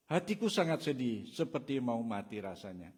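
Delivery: felt anguish. Shown as a demonstration. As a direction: cry it out as a man near death. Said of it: "coba saya ingin kita membayangkan".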